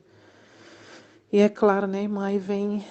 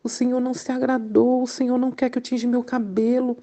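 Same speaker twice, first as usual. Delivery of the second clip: tearful prayer; 4 semitones higher than usual. Retold or imitated. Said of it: "ali eu caí aos prantos".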